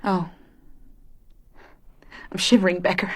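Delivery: shaky frightened whisper. Acted. Fiona whispering to Becker after the shooting. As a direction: breathe it out, scared and cold.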